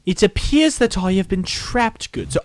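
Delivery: lightly put-on posh gentleman. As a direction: play a stuffy old gentleman.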